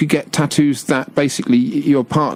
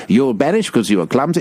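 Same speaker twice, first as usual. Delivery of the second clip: bad impression of a film Jedi; lightly put-on British accent, badly imitated; Ewan McGregor. Co-host attempting the actor's Obi-Wan voice, bad light impression. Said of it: "I'm making a bad impression".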